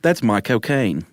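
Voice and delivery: slow, assured Cockney accent with falling end; Michael Caine impression. Shown as a demonstration. Host correcting his partner's attempt, confident Cockney impression. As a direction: show how the Cockney accent goes, drawn out. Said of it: "You just gotta say it the right way".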